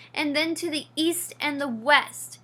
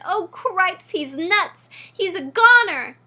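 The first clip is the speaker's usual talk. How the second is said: loud and higher, rising into alarm; panicked; 6 semitones higher, 9 dB louder than usual. A narrator's reading. Frightened mouse sees his brother doomed, panicked outcry. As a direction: cry it out as if all is lost.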